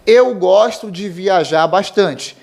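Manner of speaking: gosto said with open vowel, górsto; gosto as verb. Shown as a demonstration. Teacher reading verb example, gosto with open o. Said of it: "Eu gosto é um verbo".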